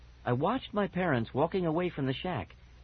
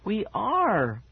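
higher, louder little squeak; 6 semitones higher, 3 dB louder than usual. A narrator's reading. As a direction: squeak it like a small rodent. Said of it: "Fergie squeaked".

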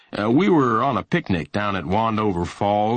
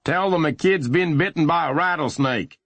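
high, raised urgent yell; yelling orders; 8 semitones higher than usual. A narrator's reading. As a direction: yell instructions to your partner. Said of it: "he yelled".

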